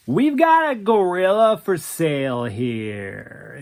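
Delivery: slow airy drawl of a gallery owner. Acted. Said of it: "in that airy drawl of his".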